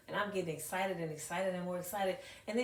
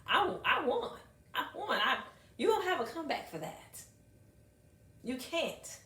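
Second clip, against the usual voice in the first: put-on triumphant child; 8 semitones higher, 4 dB louder than usual. Gloating as the child.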